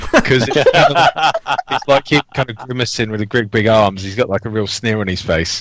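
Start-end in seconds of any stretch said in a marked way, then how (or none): 0.1-4.0 slow, laughing through it. Real, not acted. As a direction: laugh out the words. Laughing while describing Hulk.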